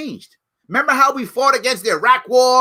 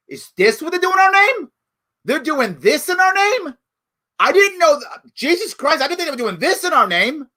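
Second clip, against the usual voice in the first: stunned, disbelieving, voice pitched up; shocked realization; 5 semitones higher than usual. Retold or imitated. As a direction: act out a citizen shocked by the news. Average white person shocked reaction.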